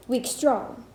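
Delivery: slow "weak strong", leaning on STRONG; light on "weak", weight on "strong"; iambic stress. Shown as a demonstration. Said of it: "unstressed syllable followed by a stressed".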